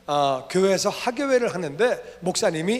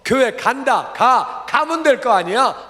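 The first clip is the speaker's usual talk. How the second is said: louder, higher mock-angry father; retold angry outburst; 5 semitones higher, 5 dB louder, slower than usual. Father angrily agreeing to go to church, acted angry. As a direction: act out a fed-up father giving in. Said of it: "너무 화가 나셔가지고".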